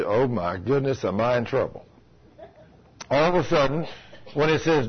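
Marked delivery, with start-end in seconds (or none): 0.0-1.8 mild retold dismay. Woman realizing the verse means her, mildly dismayed.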